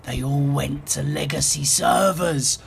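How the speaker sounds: eerie ghost pronouncement; ghastly voice. A narrator's reading. Ghost leaning close to Scrooge, ghastly voice. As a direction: deliver the dreadful news like a ghoul. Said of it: "in the most ghastly voice".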